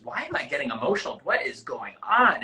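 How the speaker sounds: retold flustered emotion, lightly acted; getting emotional. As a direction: imitate someone surprised by their own feelings. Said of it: "she started getting emotional".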